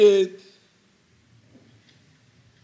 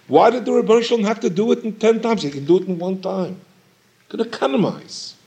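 challenging question; 4 semitones higher, faster than usual. Acted. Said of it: "the Chachamim ask".

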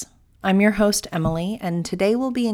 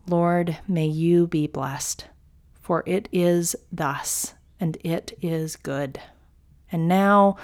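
devotional reading. Acted. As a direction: read it like sacred text, unhurried. Reads the mystic's text aloud.

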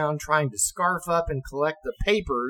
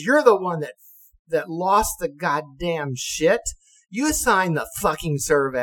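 raised, angry blaming, slowed down; angry captain; 4 semitones higher, 4 dB louder than usual. Retold or imitated. Captain angrily blaming the officer for the lost gear. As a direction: jab the blame back at him. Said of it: "He says".

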